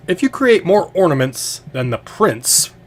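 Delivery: slow, high showman's announcement; loud proclamation. Acted. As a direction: proclaim it loudly to the arena. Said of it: "kinda loudly".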